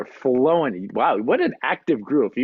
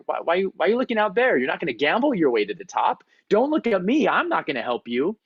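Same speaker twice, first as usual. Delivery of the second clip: mock-alarmed whoas, higher, laid-back dude; hammed-up surfer dude; 4 semitones higher, faster than usual. Instructor teases the Navy seal for looking down, mock-alarmed dude voice. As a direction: play the chill instructor hamming up alarm. Instructor scolds frozen climber.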